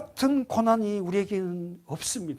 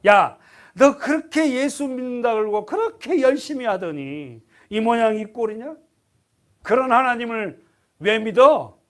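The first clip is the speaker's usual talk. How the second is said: mocking; 4 semitones higher, 5 dB louder than usual. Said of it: "조롱".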